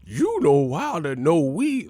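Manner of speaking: exaggerated caricature with swooping pitch; hammed-up imitation, words sliding up and down; mock freed slave. Streamer closes the runaway bit, caricature voice. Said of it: "These motherfuckers free slaves".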